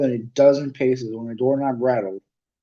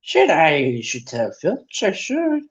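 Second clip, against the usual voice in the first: mock-saintly, falsely pious; 4 semitones higher, slower than usual. Peeves pretending to be saintly to the students. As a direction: pretend to be good while gloating. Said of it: "said Peeves in a saintly voice".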